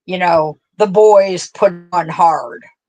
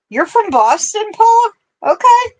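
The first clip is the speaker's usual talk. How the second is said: squeaky, high, louder mock shock; mock astonishment; 4 dB louder than usual. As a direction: ham up the disbelief, voice shooting up. Mock amazement at Paula.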